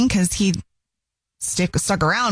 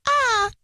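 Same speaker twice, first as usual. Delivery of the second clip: high, brief mock "ah"; small mock scream; 14 semitones higher than usual. Host imitating a minor squirrel fright, light mock yelp. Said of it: "not just like a".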